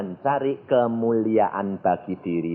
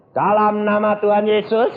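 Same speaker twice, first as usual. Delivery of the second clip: raised, measured invocation; exorcism command; 10 semitones higher, 4 dB louder than usual. Retold or imitated. Retelling how he addressed the devil, firm invocation. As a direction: invoke the name firmly, pitched up.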